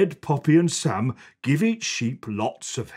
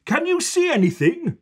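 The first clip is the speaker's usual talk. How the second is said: put-on higher, quick eager boy; boy eager to spot the lost sheep; eager child; faster than usual. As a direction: ask fast and eager. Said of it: "says Sam".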